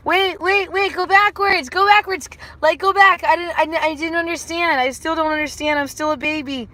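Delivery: high, urgent whiny protest; mock panic. Confused student begging the chat to go back, mock-panicked. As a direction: play a flustered, confused little one.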